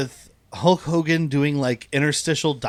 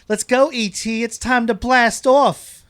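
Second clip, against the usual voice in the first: flirty secretary; 7 semitones higher, 3 dB louder, slower than usual. Retold or imitated. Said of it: "she goes".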